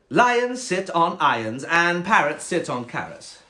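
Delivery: superior cat reciting rules; snobby cat. Acted. Cat reciting rules to the frog, snobby. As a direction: recite it snootily. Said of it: "quite a snobby cat".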